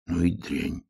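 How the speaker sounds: тихо, почти шёпотом; прошепчи с отвращением. A narrator's reading. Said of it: "прошептал медвежонок". (прошептал с отвращением)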